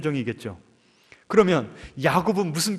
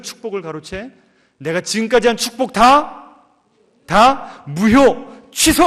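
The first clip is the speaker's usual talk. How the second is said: furious outburst; 4 dB louder than usual. Acted. Deceived father raging at Jacob, building to a shout. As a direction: rage at the cheating son. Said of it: "막 노발대발하면서".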